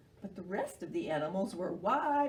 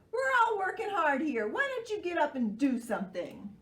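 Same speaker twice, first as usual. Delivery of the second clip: high, louder monkey scolding; 8 semitones higher, 4 dB louder than usual. Acted. Monkey scolding lazy Sloth, high and loud. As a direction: nag him like a busy monkey. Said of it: "called Monkey".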